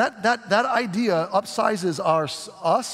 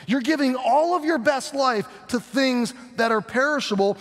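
rising urgent rebuke; 5 semitones higher than usual. Retold or imitated. Preacher voicing Jesus warning the crowd, urgent rising shout. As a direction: press harder each line until you cry out.

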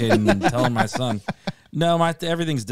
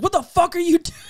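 high, loud mock outrage; imitated gamer yelling; 6 dB louder than usual. Friend berating a teammate mid video game, imitated yelling. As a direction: yell it as an exasperated teammate, hammed up. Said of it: "He yells at me way too much".

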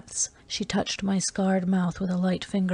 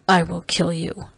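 plain reading voice

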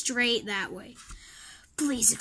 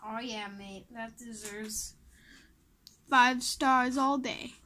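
British. Pretend. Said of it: "I feel like I'm just turning British".

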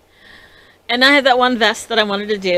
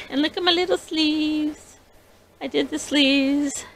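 proud delight; 8 semitones higher, 3 dB quieter than usual. Real, not acted. Shows off sleeves proudly.

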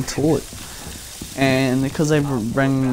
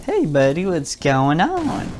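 slightly raised, drawn-out mock-casual hello; teasing greeting; 3 semitones higher than usual. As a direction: stretch out a cheeky, nosy greeting. Walks in on friend, acted greeting.

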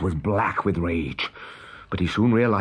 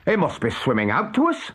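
pirate voice; 7 semitones higher than usual. A narrator's reading. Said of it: "said Starkey".

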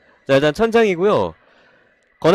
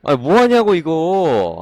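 exasperated groan; 4 dB louder, much slower than usual. Real, not acted. Annoyed at own mistake.

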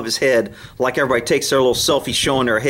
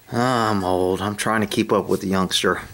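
put-on old horse voice; 6 semitones lower than usual. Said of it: "Mister T's got that".

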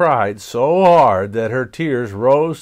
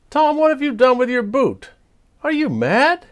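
much higher, loud, shocked cry; shocked scolding; 13 semitones higher, 4 dB louder than usual. Acted. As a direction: scold him in alarm like a big sister. Sister Lottie scolds Tom.

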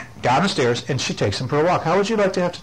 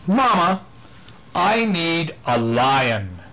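put-on little girl; 4 semitones higher, much slower than usual. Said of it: "she says".

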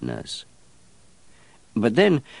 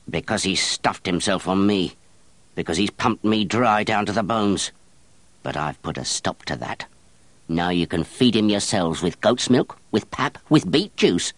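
coarse, indignant working woman; grumbling peasant nurse, rising scorn; wet nurse voice; 3 semitones higher than usual. Acted.

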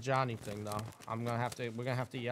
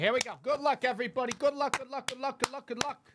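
excited cheering; 10 semitones higher, 5 dB louder than usual. Real, not acted. Cheering on the card break.

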